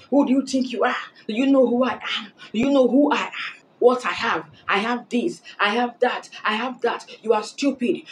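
mock outrage at being turned down; angry guy. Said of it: "guys will get so angry".

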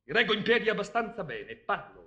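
tipsy, over-careful speech; trying to sound sober. Acted. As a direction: prove you're steady, a bit slurred. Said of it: "Io non sono ubriaco". (cercando di sembrare sobrio, un po' brillo)

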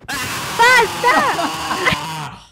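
loud, very high shriek; exasperated scream. Real, not acted. Host losing patience with friends in game, loud high scream. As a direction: let out a piercing, full scream.

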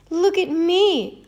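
slow, high and loud crowing; boastful cry. A narrator's reading. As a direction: shout it out proud and slow. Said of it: "he cried".

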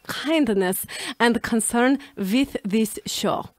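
half-hearted mock Russian accent, words stretched out. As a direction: keep the clumsy Russian accent going through the sentence. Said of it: "Dichotomous in a Russian accent".

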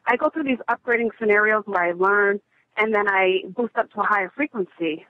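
breathless, winded speech; out of breath. Real, not acted. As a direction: talk while catching your breath. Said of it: "I'm out of breath".

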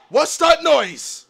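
slow question at full voice; drawn-out question. Real, not acted. Player asking Ditch what that noise is, drawn out. Repeats the question more fully.

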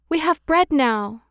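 put-on mild happy cry of children; glad cry. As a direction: lift it up with delight. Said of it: "they cried".

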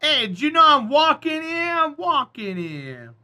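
high, hammed-up Jersey accent, loud then easing off; New Jersey accent. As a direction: call out in mock Jersey, stretching the ending. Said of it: "what I would say if I was in Jersey".

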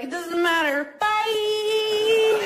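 high carefree bye, breaking into laughter; breezy brush-off. Pretend. Metabolism leaving her at thirty, high breezy brush-off. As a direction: dismiss her lightly and go.

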